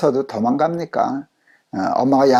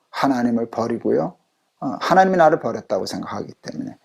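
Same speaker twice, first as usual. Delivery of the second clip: normal talking voice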